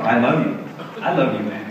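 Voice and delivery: quiet, tender I love you; softly said love you. Retold or imitated. Man tells a male friend he loves him, softly and tenderly. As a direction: say it gently to a friend. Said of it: "That's not normal guy talk".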